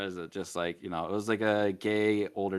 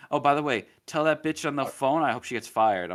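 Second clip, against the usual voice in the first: mock catty customer; 4 semitones higher, 4 dB louder than usual. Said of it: "He's like".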